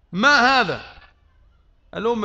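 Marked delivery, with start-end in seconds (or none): 0.1-1.0 louder, raised in stern disbelief; indignant rebuke. Retold or imitated. Preacher voicing the Prophet scolding envoys, loud rebuke. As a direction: demand it like an outraged master.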